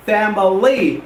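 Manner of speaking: "Family" as three syllables, fam-uh-lee; mispronounced family. Shown as a demonstration. Teacher warning students, "Family" wrongly in three syllables. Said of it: "is a wrong pronunciation".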